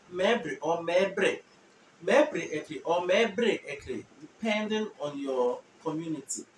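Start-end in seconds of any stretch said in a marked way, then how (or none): 0.1-4.0 slow and careful, each variant clear; slow demo. Shown as a demonstration. Teacher slowly showing both community variants. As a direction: model both forms slowly. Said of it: "you can change the accent".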